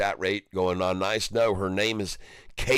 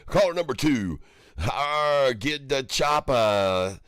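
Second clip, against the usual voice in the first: radio host; 3 semitones higher than usual. Pretend. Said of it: "speakerphone built in it".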